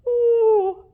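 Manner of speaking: loud, high yawning "ooh"; big pretend yawn. Shown as a demonstration. Teacher shows children how to yawn, big fake yawn. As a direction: yawn hugely and noisily. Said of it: "Can you yawn?".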